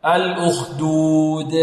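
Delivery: slow "الأخدود", long ū and strongly bounced د; clearest qalqala. Shown as a demonstration. Teacher showing qalqala, "الأخدود" with echoing final د. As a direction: stretch "الأخدود" and pop the final د. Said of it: "قلقلة أبين".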